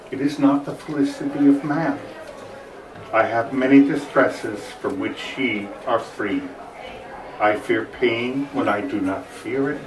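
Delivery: lamenting prince. Acted. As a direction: speak it as a weary prince. Quotes Rasselas's lament aloud.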